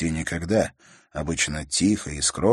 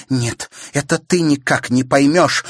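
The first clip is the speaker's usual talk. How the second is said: higher, louder angry cry; angry shout; 7 semitones higher, 7 dB louder than usual. A narrator's reading. Sister shouting angrily at her brother. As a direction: yell back at him. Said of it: "злобно крикнула она".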